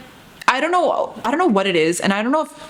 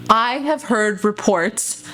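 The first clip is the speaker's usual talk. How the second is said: stern auntie; slower than usual. Retold or imitated. Auntie accusing the teen.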